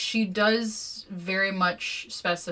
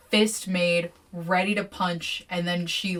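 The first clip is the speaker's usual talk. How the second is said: usual speaking voice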